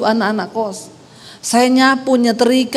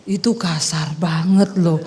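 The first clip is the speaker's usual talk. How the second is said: lower, slow, soft scolding; husband's low reproach; 8 semitones lower, 4 dB quieter than usual. Retold or imitated. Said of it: "Dia ngomong". (suami menegur pelan dengan suara rendah)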